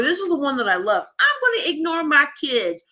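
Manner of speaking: mock cheerful, sarcastic plan. Coach mocking overcommitted parents, sarcastic. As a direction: play it up, dripping with sarcasm. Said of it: "the sarcasm in my voice".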